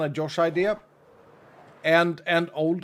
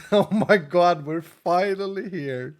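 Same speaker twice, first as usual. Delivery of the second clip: slow mock excited tourist through laughter; laughing retelling; laughing imitation. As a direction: replay the lady's line while giggling. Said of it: "It was just the funniest thing".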